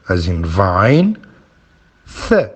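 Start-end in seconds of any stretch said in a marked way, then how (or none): 2.3-2.5 Th as the unvoiced sound in three; Th as "thuh", tongue between the teeth; consonant sound demo. Shown as a demonstration. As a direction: sound out Th with a short "uh" after it. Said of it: "as in three".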